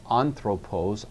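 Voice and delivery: "anthropos" with the stress on AN; stress on first syllable. Shown as a demonstration. Teacher showing where the noun's accent starts, first syllable of "anthropos" stressed. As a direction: lean on the opening syllable of "anthropos". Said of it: "is going to have to move here".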